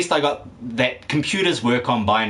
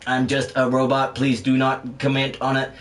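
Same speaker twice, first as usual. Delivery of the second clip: lightly voiced robot, evenly measured words; robot impression. Streamer performing as a bot for Rooks, light robot impression. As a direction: play a bot in a level monotone. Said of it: "my performance, Rooks, as, uh, Vibrant is a bot".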